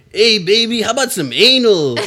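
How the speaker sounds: put-on Cholo Mexican accent, laughing. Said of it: "Cholo Mexican accent".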